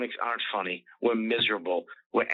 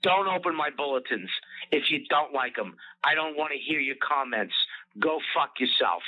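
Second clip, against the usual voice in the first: mock troll rant; 3 semitones higher than usual. Mocking an internet troll telling him off. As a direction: ham up the angry poster.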